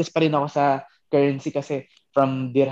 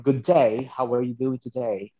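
imitating a British greeting, slow at the end; lightly put-on British accent; 3 semitones lower, slower than usual. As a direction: do how the British greet you. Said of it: "iba yung, yung ano nila".

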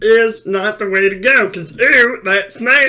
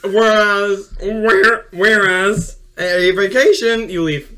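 Rick voice. Retold or imitated. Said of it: "I guess I'm doing Rick now".

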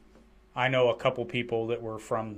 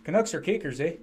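light Canadian lilt; Canadian accent; 3 semitones higher than usual. Shown as a demonstration. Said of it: "read that in a Canadian accent".

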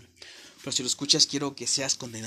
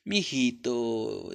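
sweet talk; much slower than usual. Retold or imitated. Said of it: "todos nos hablan dulce".

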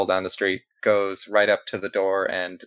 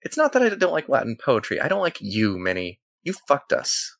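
bitter florist; 4 semitones higher than usual. Acted. Florist confronts Minnie.

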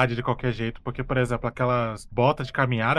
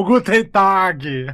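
put-on German accent; 4 semitones higher, 6 dB louder, much slower than usual. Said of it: "Sei lá como é que fala isso em alemão".

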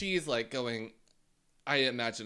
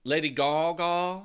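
higher, loud, drawn-out echo question; mock disbelief; 4 semitones higher, 5 dB louder than usual. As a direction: repeat it slowly, incredulous. Incredulous echo of co-host's claim.

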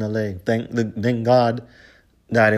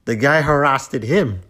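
louder and higher, hitting the accusation hard; indignant shout; 4 semitones higher, 6 dB louder than usual. Real, not acted. Vlogger insisting the laughing guy was the harasser, indignant shout. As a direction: fling it out like a verdict. Ranting about who really harassed whom.

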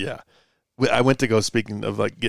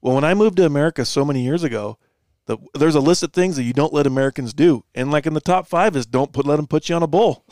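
a hint of English accent, pitched up and louder; 4 semitones higher, 4 dB louder than usual. English guy explaining his list to the farmer, a hint of English accent. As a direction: play the English guy lecturing. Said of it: "In an English accent".

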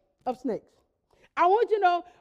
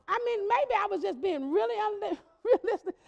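laughing; 3 semitones higher, 4 dB quieter than usual. Retold or imitated. Retelling friend's laughing remark.

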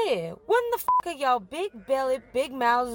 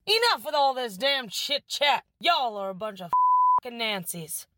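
high-pitched cursing rant; irritated outlaw. Acted. Outlaw cutting off the gang's chit chat, fed up. Outlaw scolds chattering gang.

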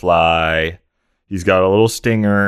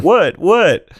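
squeaked high, confused; high confused what; 12 semitones higher, 5 dB louder than usual. Retold or imitated. The time traveller answers, high and bewildered. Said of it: "he's like".

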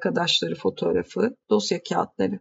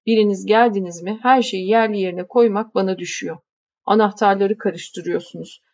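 lightly voiced grumbling housekeeper. Housekeeper warning the young lady about the keys, grumbling. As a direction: grumble while handing over the keys.

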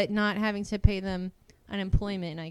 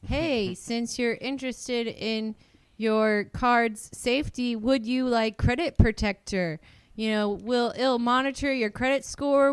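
louder, eager-sounding telemarketer patter; enthusiastic sales pitch; 2 semitones higher, 5 dB louder than usual. Retold or imitated. Bank rep pitching Credit Protector to a customer, mock-enthusiastic. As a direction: put on sales enthusiasm, pushing the volume. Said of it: "I tried to be real enthusiastic".

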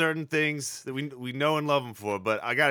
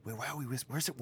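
whispering; 2 semitones lower, 12 dB quieter, faster than usual. Acted. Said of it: "We don't have to whisper this".

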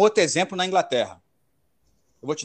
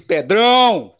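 calling out; 2 semitones higher, 6 dB louder, much slower than usual. Real, not acted. Calling out to co-host.

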